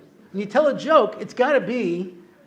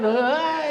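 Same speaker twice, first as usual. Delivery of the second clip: imitated laugh; 8 semitones higher than usual. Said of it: "So people laugh".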